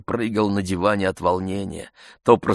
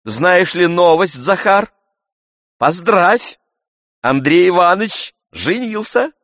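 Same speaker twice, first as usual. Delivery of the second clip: high, loud happy news; joyful announcement; 11 semitones higher, 8 dB louder than usual. A narrator's reading. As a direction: proclaim the wedding with delight.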